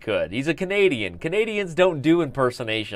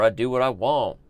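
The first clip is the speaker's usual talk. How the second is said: defiant cartoon brat, lightly put on; Cartman. Streamer doing whatever he wants on his show, as a lightly voiced Cartman. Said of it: "I'm, like, literally Cartman right now".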